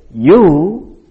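drawn-out, emphatic "you"; stress on YOU. Shown as a demonstration.

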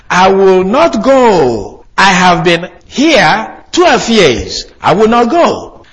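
slow, loud, stubborn refusal; defiant demon voice. Acted. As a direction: dig in and refuse to leave. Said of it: "she shouted violently and said".

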